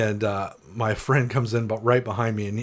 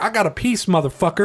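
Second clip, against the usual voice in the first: threatening yell; 5 semitones higher than usual. Retold or imitated. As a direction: bark it out like a thug flashing a gun. Gunman threatens the crowd.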